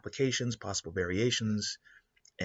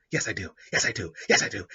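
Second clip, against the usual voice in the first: repeated yes I do, getting louder each time; building self hype; 5 dB louder, faster than usual. Retold or imitated. Character hyping himself up, building.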